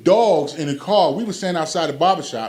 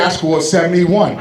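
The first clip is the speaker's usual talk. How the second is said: indignant; 6 dB louder than usual. Retold or imitated. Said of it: "He said".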